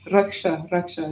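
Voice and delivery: "Raksha" as ruk-sha with curled-back sh; retroflex S. Shown as a demonstration. Teacher modelling Sanskrit, retroflex "Raksha". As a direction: curl the tongue for the sh in "raksha". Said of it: "makes it a retroflexive S".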